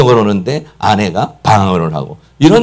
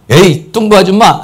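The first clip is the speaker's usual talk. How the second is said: teasing insult with a laugh, a bit louder; half-laughing put-down; mocking taunt; 6 semitones higher, 4 dB louder than usual. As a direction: laugh as you mock them. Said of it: "막 비아냥거리면서 하는 거죠".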